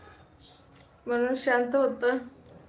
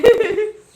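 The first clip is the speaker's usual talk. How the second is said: sudden loud burst of laughter, pitched up; real loud laugh on the livestream; 8 semitones higher, 11 dB louder than usual. Real, not acted.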